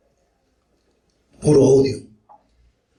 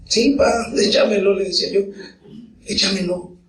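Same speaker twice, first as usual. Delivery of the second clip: put-on much higher, eager kid begging to fight; a boy who can't wait to get in the ring; niño emocionado; 8 semitones higher than usual. Niño ansioso pide pelear. (niño ansioso, voz mucho más aguda)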